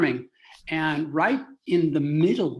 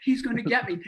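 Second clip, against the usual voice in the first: high-pitched mock clown panic; clown reacting; 6 semitones higher, faster than usual. Clown about to be pulled by a lasso, mock alarm. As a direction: play-act being caught, pitched up. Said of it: "was reacting like a clown".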